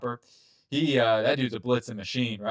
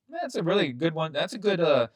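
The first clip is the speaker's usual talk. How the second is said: Southern accent; 3 semitones higher than usual. Real, not acted. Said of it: "Don't know why I'm going Southern out here".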